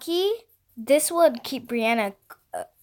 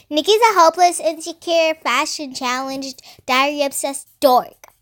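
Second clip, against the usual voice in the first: mildly hammed-up catty jeering; mocking mimicry; 3 semitones higher than usual. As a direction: mimic a catty rival's put-downs. Mimicking Mackenzie's gossip insults.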